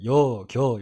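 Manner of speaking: "여", "겨" each drawn out slowly; dialect endings. Shown as a demonstration. Teacher showing endings that slip out, drawn-out dialect. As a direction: stretch the endings "여" and "겨". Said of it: "이런 거 자주 튀어나오고요".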